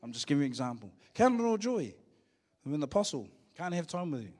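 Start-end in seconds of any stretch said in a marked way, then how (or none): 1.1-1.9 higher, louder, punched refrain. Shown as a demonstration. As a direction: hit it hard like a rallying cry. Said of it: "repeated refrain, punched".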